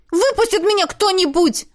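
exclaiming. A narrator's reading. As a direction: shout to be let out. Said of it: "воскликнула Миранда". (возмущённый возглас)

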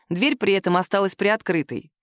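ordinary delivery, nothing marked

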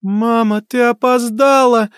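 put-on high, slow child's cry; child ghost crying out. A narrator's reading. Ghost girl crying out to her mother. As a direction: wail it like a hurt little girl. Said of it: "закричала Молли".

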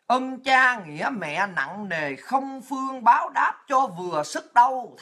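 slow, measured recital of a moral poem; recited verse. Acted. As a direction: draw out each line like an old saying.

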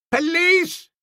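shrill-pitched yelp way up high; high yip. A narrator's reading. Old Bassett yipping for the police in a high tenor yelp. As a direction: yip it like a small dog. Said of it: "yipped old Bassett up in the tenor clef".

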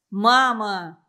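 loud, desperate shout; wild cry. A narrator's reading. Igor yells at his mother to let go, loud. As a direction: yell to break free. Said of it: "дико выкрикнул Игорь".

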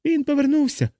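high frantic cry fading down; hysterical shouting. A narrator's reading. A patient runs about the ward crying out hysterically. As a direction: shriek it, then drop back. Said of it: "хто істерично вигукував".

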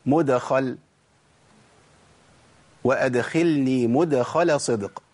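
مدخل with the dal sounded clearly by a light bounce; gentle qalqala. Shown as a demonstration. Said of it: "يعني أقول".

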